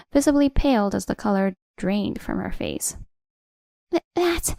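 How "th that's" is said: higher, broken stammer. A narrator's reading. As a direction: stumble over the start. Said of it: "Nicole stammered".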